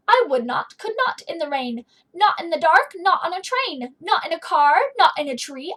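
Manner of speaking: loud, stubborn grumpy guy; grumpy refusal. Acted. Grumpy guy refuses Sam, loud stubborn no. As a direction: bark each no like a cranky grown-up.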